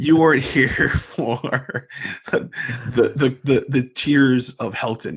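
slow, drawn-out words broken by laughter; can't keep a straight face; laughing through it. Real, not acted. Retelling the fan board history while cracking up.

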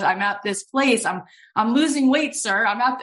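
high, halting mock-nervous confession; nervous, shaking. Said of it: "she's, like, shaking".

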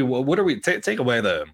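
ordinary talk, nothing marked

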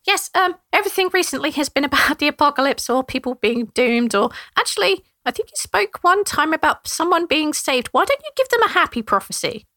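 sorry, embarrassed little brother; apologetic gnome Trevor. Acted. Trevor pleading.

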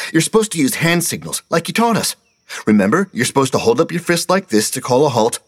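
put-on high, eager correcting child; a boy who can't stop lecturing; whiny know-it-all kid. A narrator's reading. Steve correcting Mister Carter, high kid voice.

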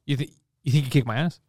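low, deadpan mock threat; straight-faced, offended. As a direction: play offended with a straight face. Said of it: "And just straight face".

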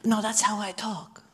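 put-on soft, accented puppet voice. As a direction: defend yourself as an accented puppet. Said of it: "we should do that accent".

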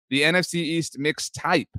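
slow "mix type" with an Australian-style vowel; "tape" said as "type", Australian-like; Australian-sounding vowel. Shown as a demonstration. Host introducing the show, Australian-sounding "type". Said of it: "like an Australian accent when you say that".

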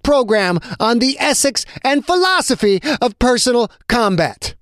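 rising voice. Acted. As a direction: deliver the verdict with relish, voice lifted. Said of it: "Draba's voice began to rise".

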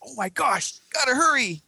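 comic alarm; mock panicked hero. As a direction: rush it like a flustered kid. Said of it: "Fortress Lad's like".

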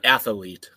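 athlete with an extra syllable, ATH-uh-lete; mispronounced example. Shown as a demonstration. Co-host cites a similar error, athlete said ATH-uh-lete. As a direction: slip an uh into athlete. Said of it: "yeah, it's not".

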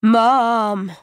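long broken word. Acted. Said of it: "a long, broken word".

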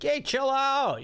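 American slang voice. Retold or imitated. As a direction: drop the British accent for surfer slang. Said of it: "my little British accent became".

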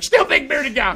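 high, wary put-on neighbor voice; retold high voice of a still-uneasy neighbor; imitating the nervous neighbor. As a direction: voice the neighbor still eyeing the big bearded stranger.

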